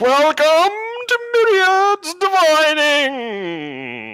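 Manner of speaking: thin reedy voice straining, very high and very loud. Narrating to the listeners, the speaker voices a man welcoming them: reedy voice trying to boom. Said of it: "his voice is a little bit reedy and doesn't quite have the stentorian cadence".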